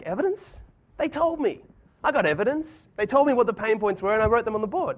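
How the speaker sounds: high-pitched, incredulous mock protest; replayed indignation, easing down from high pitch; indignant protest. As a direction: act out defending yourself, starting very high. Acted protest at being challenged.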